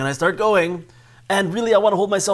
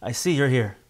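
calm acknowledgment. Pretend. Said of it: "you say".

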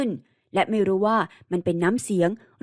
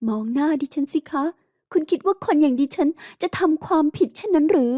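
higher, rising to an insistent challenge; challenging heroine; 6 semitones higher than usual. Acted. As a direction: dare him to doubt her. Heroine confronts him closely. (หญิงสาวท้าทายเสียงสูงขึ้น)

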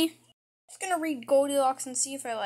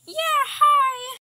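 nervous greeting; 11 semitones higher, 6 dB louder than usual. Acted.

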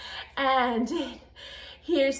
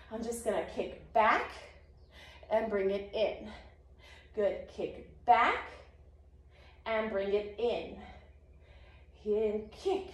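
soft, slow exercise cues; soft coaching murmur; quiet demo cues; 4 semitones lower, 7 dB quieter than usual. Shown as a demonstration. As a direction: talk them softly through the move. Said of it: "show you guys".

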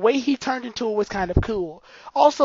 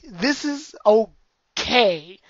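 drawn-out unimpressed; much slower than usual. Real, not acted. Lukewarm verdict on transformation.

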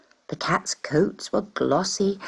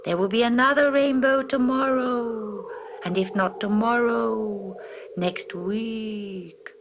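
a higher, lightly voiced west wind; 4 semitones higher, slower than usual. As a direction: lift the pitch for the wind's comfort. West wind speaks in story.

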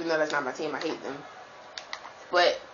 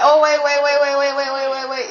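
loud, rapid repeated wait; urgent wait; 5 semitones higher, 4 dB louder than usual. Real, not acted. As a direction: stop everything, urgently. Urgent stopping during play.

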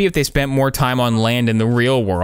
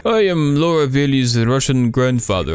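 lightly voiced Russian grandfather; a hint of a bad Russian accent; mock Russian accent. Mocking the game's grandfather in a light Russian accent. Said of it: "Laura Bailey just do a bad Russian accent".

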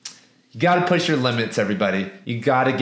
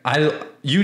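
a lightly voiced hostile redneck, a bit higher; redneck guy; 3 semitones higher than usual. Teller voicing the redneck who picks a fight, lightly imitated. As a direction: mimic the local tough sizing him up.

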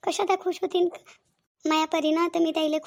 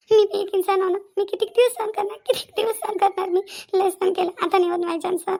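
rising outburst. Acted. Wife erupts about mother-in-law.

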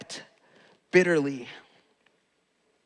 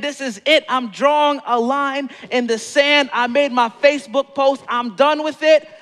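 raised, emphatic mock resolve; firm vow; 4 semitones higher than usual. Acted vow to never do it again.

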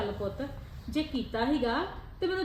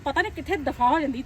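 louder, irritated complaining; frustrated grumbling; 5 dB louder than usual. Acted. Mother-in-law alone, fed up, grumbling loudly.

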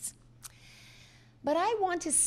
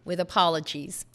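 usual speaking voice

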